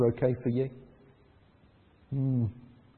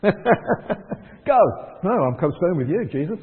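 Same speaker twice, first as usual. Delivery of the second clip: laughing refusal; 2 semitones higher, 3 dB louder, slower than usual. Retold or imitated. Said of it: "He follows".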